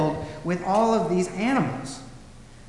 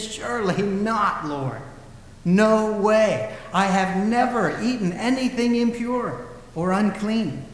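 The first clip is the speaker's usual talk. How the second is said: Peter protesting; 4 semitones higher, 3 dB louder, slower than usual. Retold or imitated. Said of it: "Peter's response in verse fourteen is".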